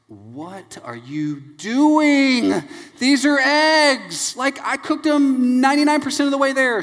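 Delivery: hammed-up outrage, stretched words climbing high and loud; exasperated dad. Dad defends his eggs to daughter, mock-exasperated outburst. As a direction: draw it out into mock-indignant yelling.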